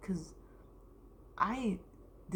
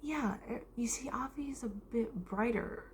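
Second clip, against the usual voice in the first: higher-pitched mimicked teacher; imitated teacher; 6 semitones higher than usual. Teacher explaining a pupil to the class, imitated higher voice. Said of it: "and she's like".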